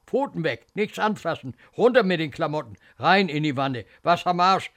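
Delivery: put-on rapid-fire commands to a child; rough, impatient nurse; brusque orders. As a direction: order the child about with disgust.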